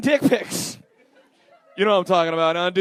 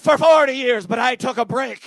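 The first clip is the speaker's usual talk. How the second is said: bad Italian accent; 2 semitones higher, 6 dB louder than usual. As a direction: imitate an Italian accent badly but with gusto. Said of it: "I don't do accents".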